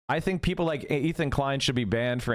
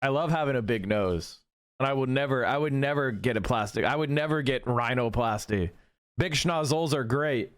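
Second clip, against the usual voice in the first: lower, dripping with fake earnestness; sarcastic mock sincerity; 3 semitones lower than usual. Mocking the critic on stream, lower and fake-earnest. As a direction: pretend to adore what you mock.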